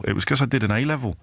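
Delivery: slipping into a light Kidderminster accent, quick. Real, not acted. Radio host lets his home Kidderminster accent slip out. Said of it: "Kidderminster accent came out then".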